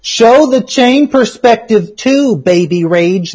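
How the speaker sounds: whiny crybaby voice, slow; mock snippy. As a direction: read it like a whiny brat. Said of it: "that's how I fucking read".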